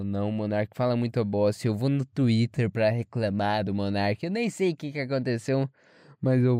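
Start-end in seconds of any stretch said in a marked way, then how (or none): 0.0-4.2 lightly voiced, lower mock grumbler; mocking complainer. People complaining about Monark on Twitter, mock complaining. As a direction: imitate a petty complainer in a lowered voice.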